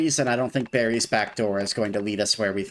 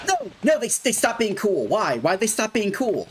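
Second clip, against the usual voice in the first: dismayed outcry; 11 semitones higher than usual. Real, not acted. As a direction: wail in disbelief. Dog turns hostile again.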